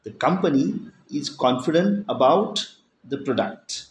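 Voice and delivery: "product" stressed, meaning not the sales; emphasis on the word product. Shown as a demonstration. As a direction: lean on "product" at the end. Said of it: "means not the sales".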